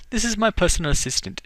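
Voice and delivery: a hint of an Irish lilt, forceful; Irish accent. Young woman greets the visitor, lightly Irish accent. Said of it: "I'm giving her an Irish accent".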